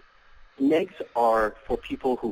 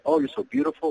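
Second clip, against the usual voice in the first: high, gushing mock compliment; 12 semitones higher than usual. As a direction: ham up a needy guy's flattery.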